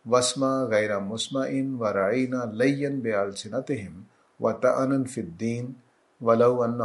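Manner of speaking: slow, measured recitation of the verse; Quranic recitation. Acted. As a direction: recite it slowly and devoutly. (آہستہ تلاوت کا انداز)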